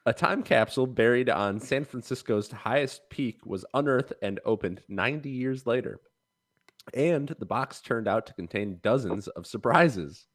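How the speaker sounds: newscaster voice. Acted. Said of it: "I can't be expected to do a newscaster voice".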